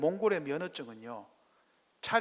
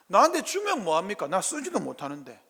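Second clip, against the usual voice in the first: a touch of shrugging dismissal on 주면, barely raised; muttered "what's the use" to God; mildly dismissive Abraham; milder retort; 2 semitones higher, 7 dB louder than usual. Acted. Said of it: "아브라함 뭐라고 그랬죠?".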